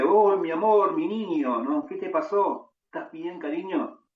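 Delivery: high, loud and pleading like a frantic mother; a mother rushing to her injured son, anguished; desperate mother. Retold or imitated. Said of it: "Esta madre totalmente desesperada, y le dice". (madre desesperada, voz aguda y suplicante)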